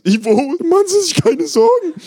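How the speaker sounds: very high, loud breezy woman; blonde assistant voice. Acted. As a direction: chirp it casually.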